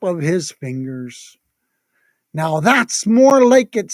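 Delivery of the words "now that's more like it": proud. Acted. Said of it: "Santa said proudly".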